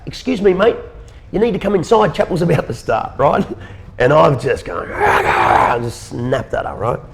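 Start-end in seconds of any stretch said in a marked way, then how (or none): 0.1-3.1 put-on high, light old lady voice, unbothered; calm little lady. Chapel lady calmly tells screaming man to come inside, higher voice. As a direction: gently call him in, perfectly calm. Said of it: "cool as a cucumber".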